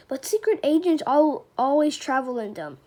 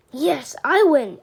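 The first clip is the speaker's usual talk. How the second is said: triumphant; 6 dB louder, slower than usual. Acted. Kid triumphs over mom.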